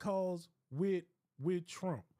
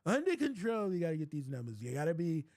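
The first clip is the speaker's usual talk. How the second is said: rambling Trump impression. Impression of forty-five on call.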